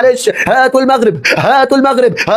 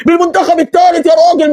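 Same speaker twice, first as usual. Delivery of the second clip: excited shout; 4 semitones higher than usual. Real, not acted. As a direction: punch الثالث with a shout. Fan repeats the phrase, shouting it.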